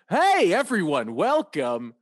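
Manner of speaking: lightly put-on radio host greeting. Radio host demonstrating for a friend, radio voice. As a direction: introduce yourself like a local radio personality. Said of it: "I had my radio voice on".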